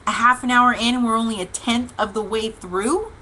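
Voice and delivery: mildly disbelieving, rising question; incredulous echo. Retold or imitated. Driver reacting to the phone report, incredulous echo. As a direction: repeat the news as if it cannot be true.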